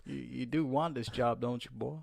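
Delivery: hammed-up American boss dangling a job; Vince. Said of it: "That's always the thing of Vince".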